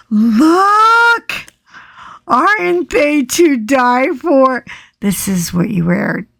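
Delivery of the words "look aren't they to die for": thrilled. Real, not acted. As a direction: present them with delight. Showing the glasses.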